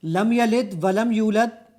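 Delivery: لم یلد ولم یولد recited very slowly, with the tajweed deliberately broken; deliberately wrong recitation. Shown as a demonstration. Host recites it wrongly so the device rejects it, slow and deliberately incorrect. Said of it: "اب میں اس کو غلط پڑھوں گا".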